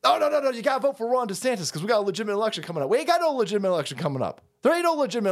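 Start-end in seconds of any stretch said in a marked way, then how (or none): 0.0-2.9 mocking DeSantis fan. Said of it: "go out there with the premise".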